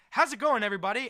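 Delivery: high, loud hammed-up greeting; celebrity greeting. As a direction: call out to the room as an arriving star. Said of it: "and he goes".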